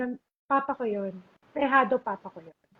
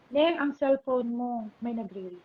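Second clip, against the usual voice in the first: calm tender voice; 4 dB quieter than usual. Retold or imitated. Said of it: "yung kalmado yung boses niya".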